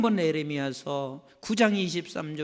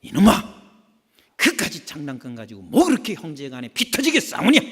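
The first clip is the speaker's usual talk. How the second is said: a light rebuke, loud on the first word; mild scolding; 8 dB louder than usual. Retold or imitated. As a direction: gently chide the brothers. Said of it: "한마디씩 꾸짖는 것이".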